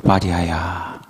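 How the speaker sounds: deep, hushed solemn 마리아야; deep solemn call. Shown as a demonstration. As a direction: say the name like a grave divine voice. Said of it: "좀 더 멋있게 말씀하셨을까요?".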